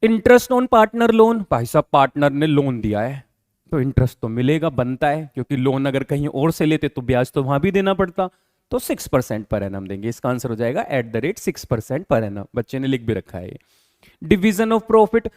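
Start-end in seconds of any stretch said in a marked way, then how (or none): 0.0-1.4 very slow, each word spaced out for note-taking; slow dictation. Shown as a demonstration. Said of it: "मतलब थोड़ा slow बोलेंगे आप". 14.2-15.3 very slow, words spaced out for note-taking; slow dictation. Shown as a demonstration. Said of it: "मतलब थोड़ा slow बोलेंगे आप".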